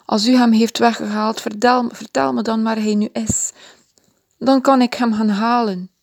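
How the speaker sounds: calling out. Acted. Maria begs the gardener for Jesus, calling out. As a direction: beg him to tell you, urgently. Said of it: "riep ze".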